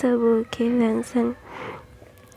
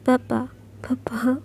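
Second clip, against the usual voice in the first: whisper; 6 dB quieter, slower than usual. Acted. Boy calls father, whispered.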